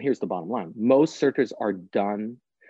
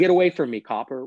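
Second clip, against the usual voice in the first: raised, louder wise-guy retort; hammed-up defiant kid; mock defiance; 4 dB louder than usual. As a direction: play at brushing off a cop. Mock defiant reply to police.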